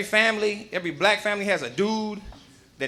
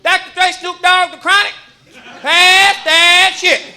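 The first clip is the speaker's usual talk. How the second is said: high, loud granny, slowing down at the end; excited granny demanding the joint; grandma voice; 8 semitones higher, 8 dB louder, slower than usual. Retold or imitated. Grandma demanding her grandson pass the weed.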